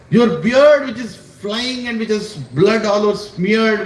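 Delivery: slow, drawn-out awe; lightly voiced devotee in awe; awed description. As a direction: linger on the gory image. Prahlad describing bloody beard.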